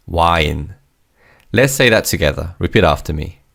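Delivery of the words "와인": "wine" as two Korean syllables, wa-in; Korean pronunciation. Shown as a demonstration. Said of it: "wine is said phonetically in Korean".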